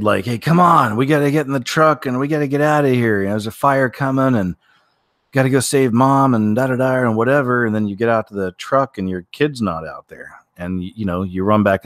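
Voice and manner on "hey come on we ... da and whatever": retold yelling at kid. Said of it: "you're yelling at your kid".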